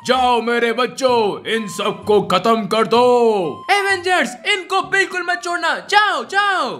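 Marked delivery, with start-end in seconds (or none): 0.1-3.0 deep gloating zombie villain. Acted. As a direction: gloat like an evil zombie boss. Villain Zombie Iron Man speaks.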